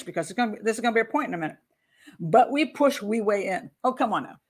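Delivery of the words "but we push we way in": faux Jamaican accent, drawn out slowly; slow, lightly put-on Jamaican accent. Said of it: "faux bad Jamaican accent".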